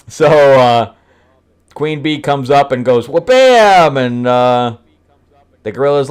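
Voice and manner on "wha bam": loud, high sound-effect word; comic impact shout. Acted. Acting out Queen Bee's sudden hit, comic impact shout. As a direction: punch it out like a cartoon blow.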